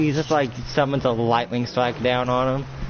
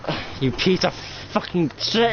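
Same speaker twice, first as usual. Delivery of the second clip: angry fight taunt; 6 semitones higher than usual. Acted.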